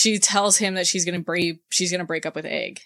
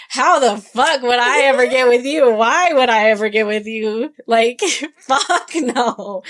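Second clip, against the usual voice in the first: imitating a furious yell, higher and louder; incredulous yell; 4 semitones higher, 6 dB louder than usual. Retelling Merrin rejecting Lee in a loud mock yell. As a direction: hurl it at him, disgusted and outraged.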